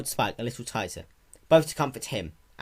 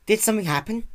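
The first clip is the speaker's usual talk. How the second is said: put-on young dragon voice; 12 semitones higher, 5 dB louder, faster than usual. Spike voiced in story.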